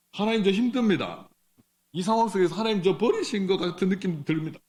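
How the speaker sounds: a preacher voicing a desperate believer's prayer; anguished prayer. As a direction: pour out the pain to God.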